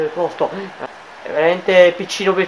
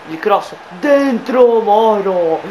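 breathless italian goal commentary; 2 semitones higher, 4 dB louder, much slower than usual. Real, not acted. Dangerous cross, drawn-out call.

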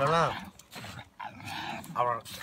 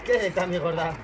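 doting pet talk; 5 semitones higher than usual. Real, not acted. Doting on dog Lola.

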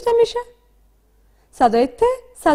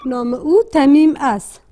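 slow dictation; 4 dB louder, slower than usual. Shown as a demonstration.

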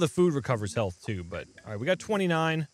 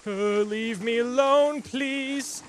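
being chased; 7 semitones higher, much slower than usual. Real, not acted. Begging fleeing monsters.

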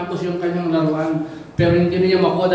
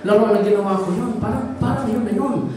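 higher-pitched voice of dawning recognition; excited boy's discovery; 5 semitones higher than usual. Acted. Boy spotting his lost toy boat in a shop, excitedly. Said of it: "Sabi niya".

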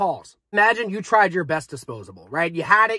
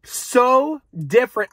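amazed; 4 semitones higher, 3 dB louder, much slower than usual. Real, not acted.

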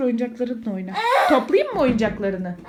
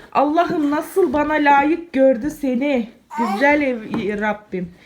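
adoring praise. Real, not acted. Mother dotes on her clever child, adoring. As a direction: savour each word of tender admiration.

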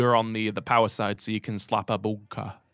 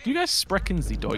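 mock German accent; 8 semitones higher than usual. Echoing the German joke.

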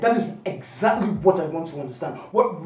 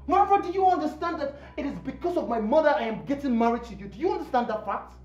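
indignant, raised pitch with punched key words; indignant protest; 4 semitones higher than usual. Acted. Fiancé protests sending his mother away, indignant. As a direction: protest in disbelief at the demand.

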